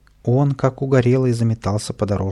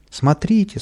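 frightened shout; 9 semitones higher than usual. Acted. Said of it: "испуганно кричали прохожие".

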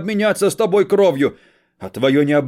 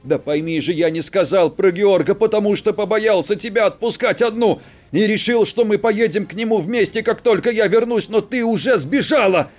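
loud desperate male shout; 8 dB louder than usual. Acted. Husband shouting to reach his wife, loud. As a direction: yell to get through to her. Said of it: "перешёл на крик".

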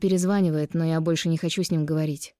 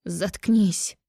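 крик. Acted. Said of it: "заорала я".

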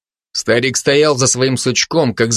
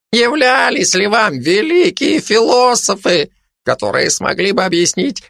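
indignant, higher-pitched questioning; challenging; 5 semitones higher than usual. Acted. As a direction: challenge the listeners with rhetorical questions. Old hermit challenges his listeners. (с вызовом, возмущённо)

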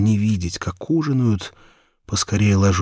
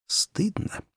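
higher bashful whisper; embarrassed whisper; 11 semitones higher, 6 dB quieter than usual. A narrator's reading. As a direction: whisper it as if ashamed. Boy embarrassed at marrying thought. (смущённый шёпот)

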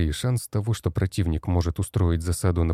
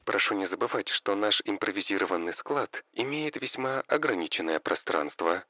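softer, dry machine voice; AI reminder voice; 5 dB quieter than usual. Acted. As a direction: remind him, cool and even. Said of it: "напомнил Д И И". (сухой тихий голос ИИ)

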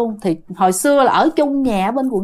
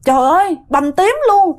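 mildly alarmed exclaiming, pitched up; retold calling out; 4 semitones higher than usual. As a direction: imitate calling everyone to look. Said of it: "chạy ra kêu mọi người".

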